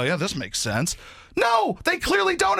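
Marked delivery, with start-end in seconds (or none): 0.0-1.0 mock smug agreement. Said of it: "and they go".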